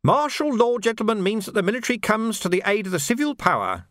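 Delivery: menacing Carcer with a sly, amused edge; sneering sergeant. Acted. Carcer taunting the Major about the burned watch house, sly. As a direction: needle the officers with mock concern.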